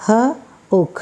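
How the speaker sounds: hook split into h and ook; sound-by-sound demo. Shown as a demonstration. Teacher sounding out "H-ook" for students. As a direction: say "H-ook" in two parts, h then ook.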